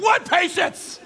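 high, drawn-out mock yell; hammed-up exasperated squawk; outraged retort. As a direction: explode in comic disbelief. Acted retort to the announcement.

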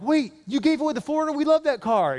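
high-pitched, indignant protest; incredulous kids. Retold or imitated. Children to dad who gave away the car, incredulous. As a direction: imitate children shocked at losing something they love.

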